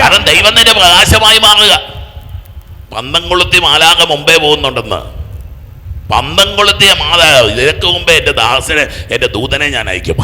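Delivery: loud, high, ringing proclamation; full-force preaching. Real, not acted. Preacher proclaiming a confirmation to the sorrowing, full-force preaching.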